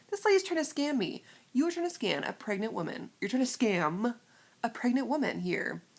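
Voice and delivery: indignant, emphatic inner outburst; acted indignation. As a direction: rant in your head at a cheat. Indignant inner rant at cashier.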